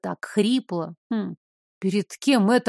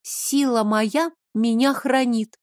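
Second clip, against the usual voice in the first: even. Acted. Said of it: "ровно сказала я".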